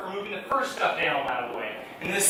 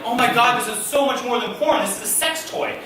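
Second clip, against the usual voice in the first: rising, faster panic; panicked inner voice; 7 semitones higher, 8 dB louder than usual. Retold or imitated. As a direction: spiral into nervous panic. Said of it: "I'm like".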